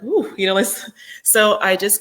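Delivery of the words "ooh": high, louder mock "ooh"; imitated body's "ooh". Empath done after a big event, high imitated "ooh". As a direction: let out a high "ooh" for the tired body. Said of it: "my body's like".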